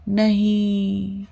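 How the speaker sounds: put-on sleepy child's cry.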